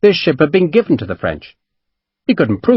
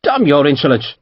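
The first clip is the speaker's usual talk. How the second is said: growl; 2 semitones higher than usual. A narrator's reading. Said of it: "Fairley growled".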